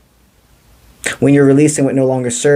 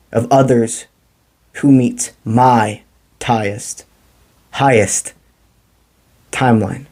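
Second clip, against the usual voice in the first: spoken affirmation. Shown as a demonstration. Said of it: "So say it with me".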